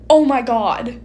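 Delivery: mock-shocked outburst after a gasp; acted shock. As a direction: act out stunned disbelief. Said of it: "you're shocked and you're like".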